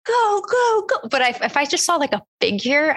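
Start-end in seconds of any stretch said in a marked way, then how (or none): 0.1-1.1 panicked urging. Retold or imitated. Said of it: "I'd be like".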